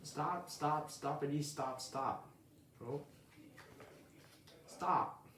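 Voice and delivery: eager little bird. Acted. Early Bird gushing to sleepy Owl, high and eager. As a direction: chatter up at your hero, all excitement.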